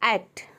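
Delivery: एक्ट said "akt" with the open a of "cat"; correct "ae" vowel. Shown as a demonstration. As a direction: open एक्ट wide, like "act". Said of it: "यहाँ पे देखिए आई".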